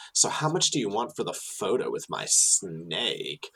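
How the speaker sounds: a hint of a sneaky street hustler scheming; snake guy impression. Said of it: "this is how I'm doing the impression".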